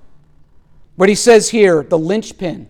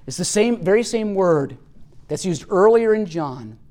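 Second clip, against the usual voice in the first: ordinary delivery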